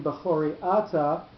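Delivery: Ata stressed A-ta after Bechori; accent moved back. Shown as a demonstration. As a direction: lean on the first syllable of Ata in Bechori Ata. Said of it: "the accent moves to the first syllable".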